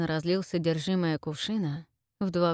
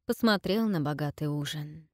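plain reading voice

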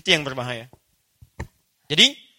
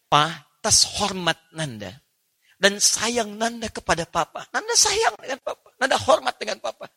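tender son's voice; 3 semitones higher than usual. Acted. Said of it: "Lihat cara menerjemahkannya".

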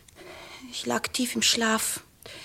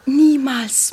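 fierce whisper; 6 dB louder than usual. Acted. Girl denies any quarrel.

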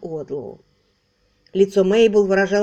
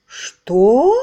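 sudden loud cry of shock; loud startled outcry; 2 semitones higher, 9 dB louder than usual. Acted. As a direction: blurt it out, stunned. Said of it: "вскрикнули поражённые Мейбл и Эрнест".

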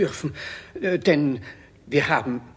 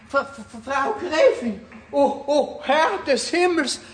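higher, stammering alarm; alarmed calling; 8 semitones higher than usual. Acted. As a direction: call for help in a fright. Servant panics at stopped clocks.

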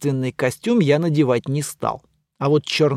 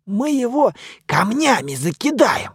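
mummy's voice; 7 semitones higher than usual. Acted.

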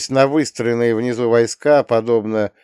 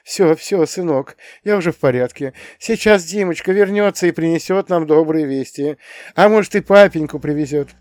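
higher-pitched motherly reassurance; soothing mother; 6 semitones higher than usual. A narrator's reading. Mother strokes her frightened youngest son, soothing. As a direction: comfort a shaken child. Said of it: "гладила его по голове и говорила".

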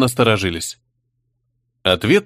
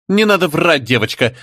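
harsh cutting; 4 semitones higher than usual. Acted. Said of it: "жёстко резанула Ванда".

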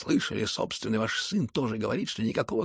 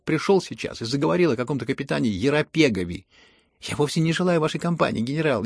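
loud, pitched-up, taunting protest; mocking insistence; 4 semitones higher, 6 dB louder than usual. A narrator's reading. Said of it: "тем же насмешливым тоном".

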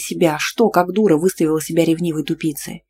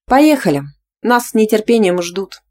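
eager; 5 semitones higher, 4 dB louder than usual. A narrator's reading. Eager departure on the bike.

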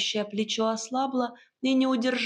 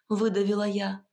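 plain reading voice

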